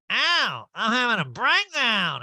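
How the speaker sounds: high, loud, drawn-out whine; mock distressed wail. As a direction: wail it like a hammed-up diva. Mimicking Erika getting hair pinned.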